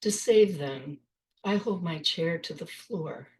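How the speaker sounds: measured poetry reading, pausing after each phrase; poem reading. Acted. Poet reads her poem Thoughts and Prayers to an audience, measured recital. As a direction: read it line by line, with space between phrases.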